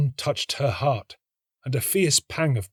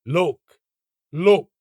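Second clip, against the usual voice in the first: high, loud rising call that builds; excited cry; 5 semitones higher, 7 dB louder than usual. A narrator's reading. The tree showing off the finished rose, excited high call. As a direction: cry out in wonder. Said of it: "cried the tree".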